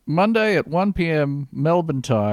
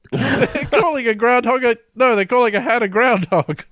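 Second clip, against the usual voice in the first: high, loud, breathless mock announcement; hammed-up urgent call to everyone; mock urgent alarm; 8 semitones higher, 4 dB louder than usual. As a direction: sound the alarm like breaking news. Mock urgent news alert.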